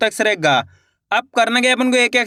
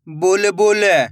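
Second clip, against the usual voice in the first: slow, drawn-out blending of the word; slow clear reading; 2 semitones lower, much slower than usual. Shown as a demonstration. Teacher to pupils, blending the word slowly. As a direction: stretch each syllable for the pupils. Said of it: "मैं किस तरीके से एक एक अक्षर का उच्चारण".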